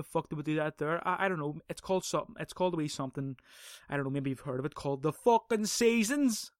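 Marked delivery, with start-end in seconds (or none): 4.7-6.5 higher, louder, slower punchline; sarcastic emphasis. Real, not acted. Mocking the arguer with the obvious answer, sarcastic and raised. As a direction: spell it out for the slow ones.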